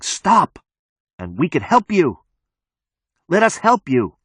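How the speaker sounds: high, pleading calls; calling out. Acted. Support group begs the gunman to stop, high pleading shouts. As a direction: plead from a distance, pitched well up. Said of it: "Their voices come to me on the cold wind".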